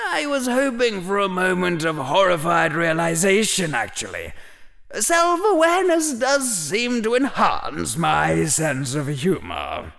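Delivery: put-on high, wry, amused old hat; dry old hat voice. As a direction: tease him like an ancient hat. The hat answers dryly.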